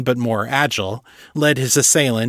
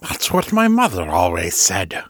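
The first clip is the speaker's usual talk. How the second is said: thoughtful; 4 semitones lower than usual. A narrator's reading. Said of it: "Zeke said, thoughtfully".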